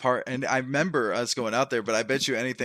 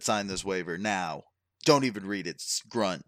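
mock brute; 4 semitones lower than usual. Friend retelling a guy who kicked someone, mock brute voice.

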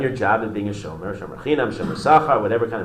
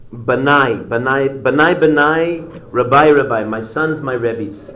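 louder grieving father calling his sons; mock anguished cry; 2 semitones higher, 6 dB louder, slower than usual. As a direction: call out the names in grief. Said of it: "And he screams".

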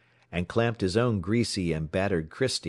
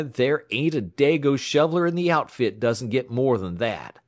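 contemptuous gruff tramp; 5 semitones higher, 4 dB louder than usual. A narrator's reading. Tramp sneering at clerk's pay.

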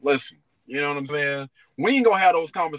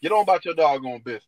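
gruff overprotective dad. Retold or imitated. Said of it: "That's gonna scare a lot of dudes".

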